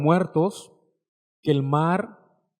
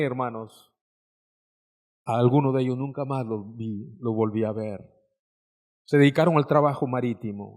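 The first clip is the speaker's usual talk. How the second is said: sad recollection; 3 semitones lower than usual. Real, not acted. Preacher recalls lost friends from port.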